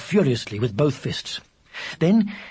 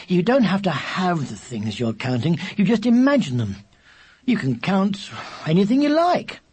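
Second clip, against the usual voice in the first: put-on higher, emphatic boy explaining; lightly voiced exasperated boy; impatient older brother; 4 semitones higher than usual. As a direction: spell it out to a little brother.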